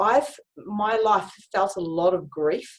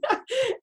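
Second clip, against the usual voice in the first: laughing. Real, not acted. Laughs at her own story.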